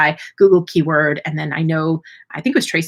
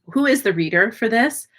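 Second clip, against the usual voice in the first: ordinary talk, nothing marked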